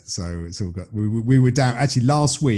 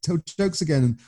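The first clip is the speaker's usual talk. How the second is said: mock delight, building louder toward the end; imitating comedians gushing, getting louder; lightly hammed-up joy, rising to louder; thrilled comedians; 5 semitones higher, 5 dB louder than usual. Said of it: "all the comedians were like".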